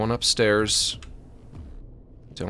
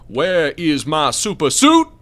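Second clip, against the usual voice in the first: loud slow demand; 3 semitones higher, 9 dB louder, slower than usual. Pretend. Comic demanding quote.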